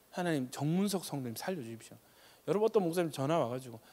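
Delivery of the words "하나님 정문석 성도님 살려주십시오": much softer, hushed pleading; a touch of crying prayer; soft imploring plea; mild tearful prayer. Retold or imitated. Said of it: "다들 울면서".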